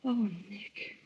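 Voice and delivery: breathy whispered name. Real, not acted. Wife whispering to Nick before a kiss.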